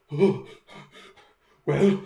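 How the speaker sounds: loud outburst rising in pitch; defiant foe. Acted. Startled foe stands up and faces the attacker, defiant. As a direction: blurt it out high and loud, in bursts.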